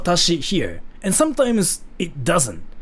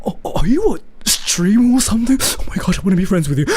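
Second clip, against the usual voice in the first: high, excited starstruck fan; gushing fan voice; 3 semitones higher, 3 dB louder than usual. Retold or imitated. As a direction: gush like an impressed stranger. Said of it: "people will be like".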